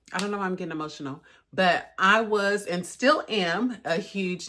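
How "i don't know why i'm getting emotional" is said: quick admission of real, rising emotion; getting emotional. Real, not acted. Vlogger surprised by her own feelings about her idol, emotional. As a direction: hurry through the words as feeling comes up.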